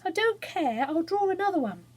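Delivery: high, tearful and defiant; upset defiance. Acted. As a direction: push back through the tears.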